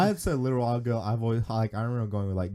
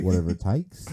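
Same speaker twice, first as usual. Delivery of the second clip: badly faked Australian accent; hammy attempt at an Australian accent; 2 semitones lower, 3 dB louder than usual. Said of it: "the worst Australian accent".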